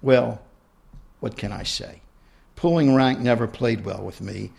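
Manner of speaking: reading her own book aloud; story narration. A narrator's reading. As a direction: read it out like an author at a reading.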